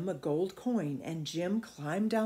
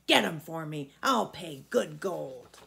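fierce; 3 semitones lower, 4 dB louder than usual. Acted. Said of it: "said the giant fiercely".

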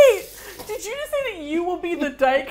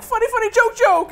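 tipsy, rising, giggly voice; drunk party guest; 10 semitones higher, 4 dB louder than usual. Retold or imitated. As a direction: play a drunk guest cracking up. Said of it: "they're drunk and they're like".

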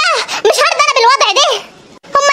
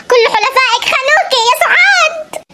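mock-tragic cry with an odd timbre; hammed-up soap-opera betrayal; dramatic shout; slower than usual. Suad wailing to grandma, hammed-up shout.

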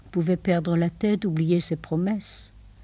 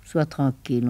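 ordinary talk, nothing marked

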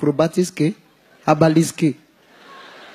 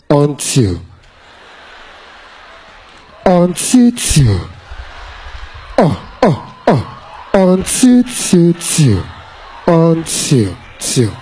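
mock echo; 6 semitones lower, much slower than usual. Imitating mic feedback engineer.

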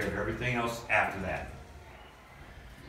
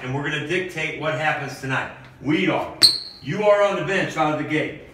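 pep talk; 3 semitones higher than usual. Acted. Coach fires up team.

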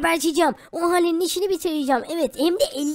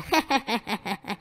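long, staccato taunting cackle; taunting laugh; 5 semitones lower, 6 dB quieter than usual. Acted. Woman taunting her love rival, mocking laugh.

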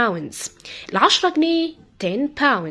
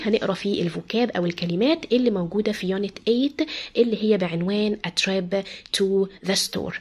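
ordinary talk, nothing marked

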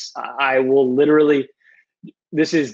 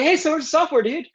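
retold wheedling query; 13 semitones higher than usual. Retells asking the engineer for software.

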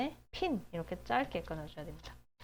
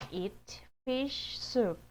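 Eat fish soup stretched very slowly; slow model reading; 3 semitones higher, much slower than usual. Shown as a demonstration. Teacher models phrase slowly for class. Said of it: "eat fish soup가 아니고".

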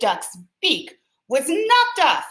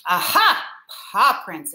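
mild exclaim. Acted. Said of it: "exclaimed Splat".

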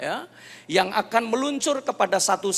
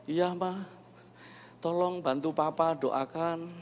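soft, subdued request; imitating a humbled husband, hushed; sheepish; 7 dB quieter, slower than usual. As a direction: answer your wife meekly, dropping your volume. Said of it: "saya malu".

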